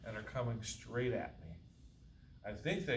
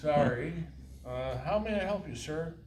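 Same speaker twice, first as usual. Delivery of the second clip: clerk stifling laughter; 5 semitones higher, 7 dB louder than usual. Acted.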